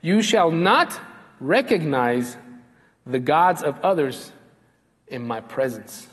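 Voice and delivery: slow, weighty reading of the verse; slow emphatic repeat. Shown as a demonstration. Preacher repeating the verse slowly to the congregation. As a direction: let each phrase land slowly. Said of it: "Let me repeat that, the way it's translated".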